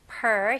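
per said with the tongue drawn back into an R; per with a retroflex R; pulled-back tongue. Shown as a demonstration. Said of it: "혀 당기는 느낌".

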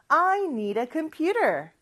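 "need a" blended into "nee-da"; linked "need a". Shown as a demonstration. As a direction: tuck "a" onto the end of "need". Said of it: "어, 들리나요".

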